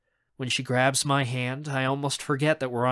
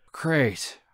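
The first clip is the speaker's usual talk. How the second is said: relieved. Acted.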